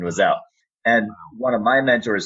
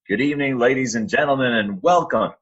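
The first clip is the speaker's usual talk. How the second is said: arena announcer; 6 semitones higher than usual. Retold or imitated. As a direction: boom it out like the Garden PA. Announcing at Madison Square Garden.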